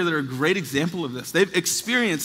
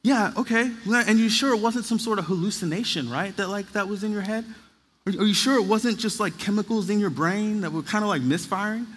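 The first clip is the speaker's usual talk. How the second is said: lightly voiced puzzled professor, higher pitch; skeptical professor; 4 semitones higher than usual. Professor questioning a student's husband's conversion story, lightly imitated puzzled doubt. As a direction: imitate a hesitant, doubting academic. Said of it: "scratching his head and being like".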